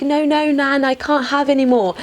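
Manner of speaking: lightly voiced guest refusing; protesting grandchild. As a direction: turn down the food, a touch pleading. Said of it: "And they're like".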